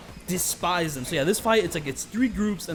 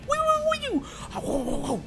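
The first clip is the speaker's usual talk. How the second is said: sound effect imitation; much slower than usual. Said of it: "sound effect with the knife where it goes like".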